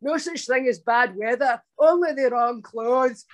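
lightly voiced Scottish comedian impression; a hint of a famous comic, stretching the last phrase; Billy Connolly impression. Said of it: "got a Billy Connolly impression in the bag".

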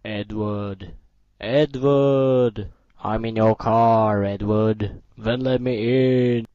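loud, slow, low zombie call. Acted. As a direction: drag out his name, slow and heavy. Zombie calling Ed repeatedly.

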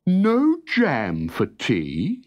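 very slow, rising, sorry question; drawn out as if shocked for him; sympathetic disbelief. Acted. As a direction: horse echoing the soldier, slow and pitying. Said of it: "feeling very sorry for him".

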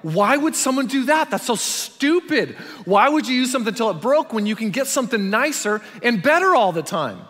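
put-on high, loud scoff at old ways; mock scoffing listener. Pastor voicing the congregation's scoff at fixing broken things. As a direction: sneer at fixing things like it's absurd. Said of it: "You're thinking, like".

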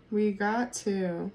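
very slow, drawn-out and deliberate; slow emphatic repeat. Shown as a demonstration. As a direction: savor each word as a reveal.

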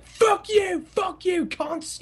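hammed-up brawler cursing in his head; players' inner voice. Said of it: "hear the internal monologue".

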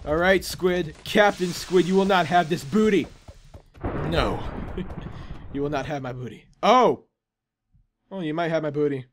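lightly voiced pirate defiance; a hint of buccaneer; failing pirate voice. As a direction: defy the squid as a half-hearted pirate. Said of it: "trying to talk in a pirate voice".

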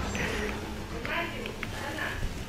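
long, soft breathy sigh. Real, not acted. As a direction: let out a long quiet breath. Frustrated searching for gun.

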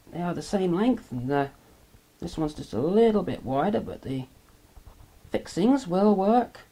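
quiet, off-mic voice; speaking away from the microphone; faint. Real, not acted. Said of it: "Sorry, I'm a bit faint at the moment".

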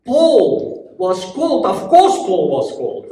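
wowed, stretching out the key words; excited admirer. Acted. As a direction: marvel like an excited Bible reader. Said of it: "you are excited about what Paul".

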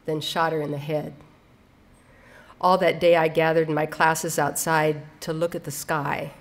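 measured recital with pauses between phrases; understated, deliberate poem delivery; poetry reading. Acted. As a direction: read the poem line by line, letting each image land. Reads poem aloud.

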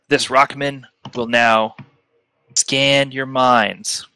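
slow, portentous scene setting with long pauses; game master narration. Acted. Game master describing Rockman scanning the players' minds, slow narration. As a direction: set the scene deliberately, letting each phrase hang.

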